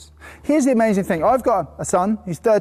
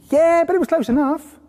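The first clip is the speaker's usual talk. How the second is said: mock praise; 8 semitones higher than usual. Voicing the wife's praise.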